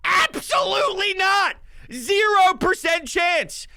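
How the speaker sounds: emphatic shout. Real, not acted. Emphatic dismissal of Patriots.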